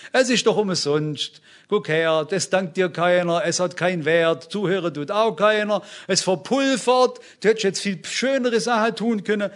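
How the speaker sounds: mock nagging devil, insistent run of complaints; a touch of the discouraging tempter, pressing each point; lightly voiced devil. Devil talking a weary believer into giving up, lightly voiced nagging. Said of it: "so ist der Teufel".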